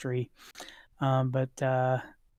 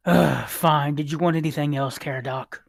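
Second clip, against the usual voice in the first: grumpy shopkeeper; 4 dB louder than usual. Acted. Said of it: "the shopkeeper says".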